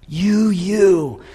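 acted tearful cry to God; David weeping. David confessing his sin to God, weeping. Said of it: "David is weeping".

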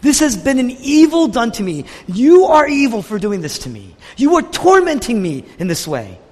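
heated, acted accusation; exceedingly angry. Preacher as Jonah accusing God of tormenting him, angry. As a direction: press the charge as a wronged prophet would. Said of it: "he's exceedingly angry".

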